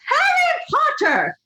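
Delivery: shrill, drawn-out furious cry; furious mother. A narrator's reading. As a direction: scold him at the top of your voice. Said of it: "Molly fumed".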